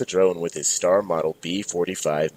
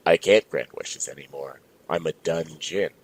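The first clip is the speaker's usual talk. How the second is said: monotone voice; 2 semitones lower than usual. Acted. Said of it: "In the monotone voice".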